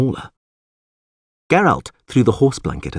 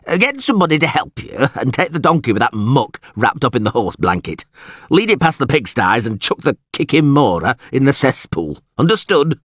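slightly higher-pitched instructions; bossy alderman; 5 semitones higher than usual. Acted. Alderman ordering the guard to dump the carcass, bossy. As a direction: give orders and check they landed.

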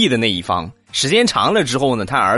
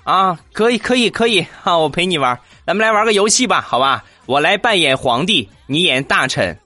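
playful dad; 6 semitones higher than usual. Retold or imitated. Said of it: "说完之后，地雷".

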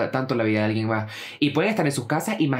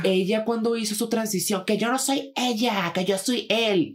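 mock indignant exchange; 10 semitones higher, slower than usual. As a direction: imitate a touchy exchange in a high-pitched voice. Acted quarrel over pronouns.

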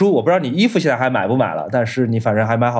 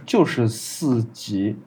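slow, garbled broken audio; radio breaking up; 3 semitones lower, 5 dB quieter, much slower than usual. Real, not acted. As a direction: signal dropping out mid-word. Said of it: "你的声音断断续续的".

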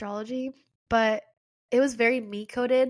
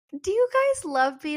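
higher-pitched mock-needy question; acted pleading question; 5 semitones higher than usual. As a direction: ask it high, putting on neediness. Acting out herself needy for love.

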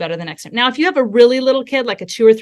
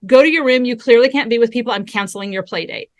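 mock scolding. Parent punishing a child for hitting, mock stern scolding. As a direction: hand down a punishment, lightly acted.

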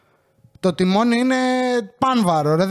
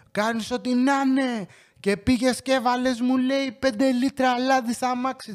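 nagging mother; 5 semitones higher, 3 dB quieter than usual. Retold or imitated. Mother scolding son on phone.

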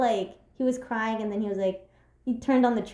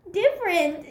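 sweet little voice; 5 semitones higher than usual. Retold or imitated. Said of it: "The wavy hands different".

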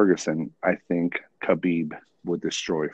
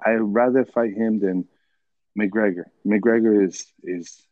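mimicking Khabib's accent; 3 semitones higher than usual. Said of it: "he's like".

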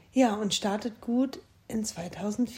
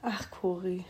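whispering; 2 semitones lower, 5 dB quieter, slower than usual. Real, not acted. Tender aside to friend.

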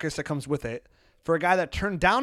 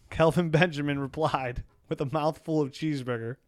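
laughing. Real, not acted. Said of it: "reading my tweet and laughing at my own joke".

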